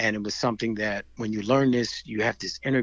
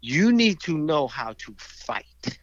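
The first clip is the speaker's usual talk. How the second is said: slow, emphatic instructor's warning; mildly forceful retold lecture; aggressive old master; 4 dB louder, much slower than usual. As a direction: drive each word home like a stern teacher. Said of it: "he's aggressively yelling at them".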